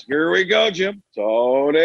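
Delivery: Here we go handed back as Tony; two broadcasters trading lines; Romo and Nance bit. Retold or imitated. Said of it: "the bit was".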